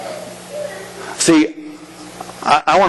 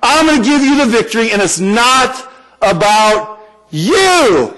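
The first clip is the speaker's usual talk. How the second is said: voice of God; 5 semitones higher than usual. Retold or imitated. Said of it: "He says".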